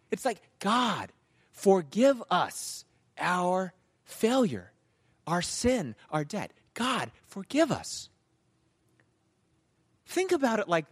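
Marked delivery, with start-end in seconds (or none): 0.6-8.1 slow, firm bold petition; audacious prayer. Shown as a demonstration. Preacher showing the bold way to pray, audaciously. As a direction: space out each phrase boldly. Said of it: "how incredibly audacious this prayer is".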